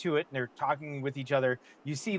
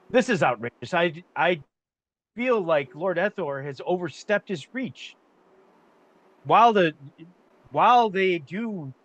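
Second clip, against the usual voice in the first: higher, indignant protest against Lord Ethor; a nobleman bristling at an insult; outraged merchant; 4 semitones higher than usual. Acted. Merchant objects angrily at council.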